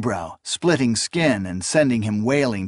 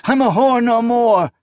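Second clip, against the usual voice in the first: high loud protest; 11 semitones higher, 5 dB louder than usual. A narrator's reading. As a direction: insist it against him. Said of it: "she protested".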